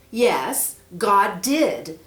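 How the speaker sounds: put-on a worried kid asking for help; young boy Peter. Boy asks the snake about the scroll, eager.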